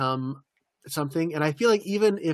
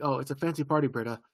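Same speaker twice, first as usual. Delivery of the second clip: offhand, softer mention; casual; 4 dB quieter, faster than usual. Retold or imitated. Troy telling Britta it's a fancy party, casual. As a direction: toss it off casually, trailing away quieter. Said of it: "he says it so casual".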